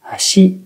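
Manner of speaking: "hashi" low on ha, high on shi; flat accent, low-high. Shown as a demonstration. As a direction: step up to the second mora of "hashi". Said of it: "toutes les suivantes sont hautes".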